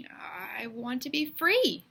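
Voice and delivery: slow brave whisper; boy answers the three men in a slow brave whisper; whispered bravely. A narrator's reading. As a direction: whisper it slowly, finding courage. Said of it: "he said bravely".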